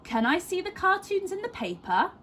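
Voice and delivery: put-on high eager girl; child voice. A narrator's reading. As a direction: ask like a keen little girl. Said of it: "asked Laura".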